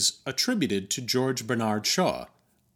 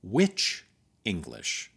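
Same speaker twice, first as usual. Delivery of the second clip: polite; 6 semitones lower, slower than usual. Pretend. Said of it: "as politely as I could muster".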